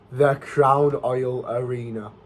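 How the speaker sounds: nostalgic slow savour. Shown as a demonstration. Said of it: "I've not said that in ages".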